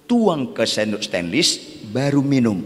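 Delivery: ordinary talk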